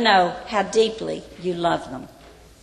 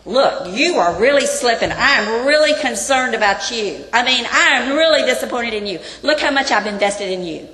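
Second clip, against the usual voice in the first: loud, exasperated scolding of a disappointed mentor; a mentor loudly scolding his slipping student; scolding rebuke; 3 semitones higher, 6 dB louder than usual. Pretend. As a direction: berate him, voice rising to the last line. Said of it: "He doesn't come to Timothy and say".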